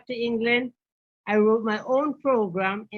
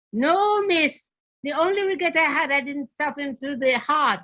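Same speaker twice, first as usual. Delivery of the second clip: higher-pitched retold protest; defiant boy; 4 semitones higher than usual. Boy answering miss about his regrets, imitated defiance, higher voice. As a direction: mildly mimic an unrepentant boy, pitched up.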